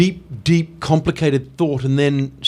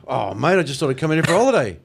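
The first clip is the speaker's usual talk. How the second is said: put-on 1 Australian accent reply; faster than usual. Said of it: "which is like".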